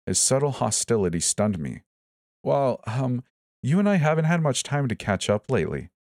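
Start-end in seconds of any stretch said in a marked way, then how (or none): 2.4-5.9 high, nervous squeak; pitched up, hesitant squeak. A narrator's reading. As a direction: squeak out an awkward excuse. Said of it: "I squeaked".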